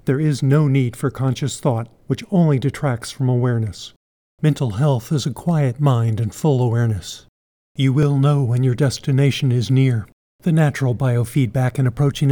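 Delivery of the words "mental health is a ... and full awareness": measured statement, "full" stressed; emphatic stress. Shown as a demonstration. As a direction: stress on "full" in "full awareness", falling close. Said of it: "Let me emphasize again".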